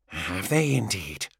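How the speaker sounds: low, slow, dry response; dry reply. A narrator's reading. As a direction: humour the confused patient, unhurried. Calm voice humours confused patient.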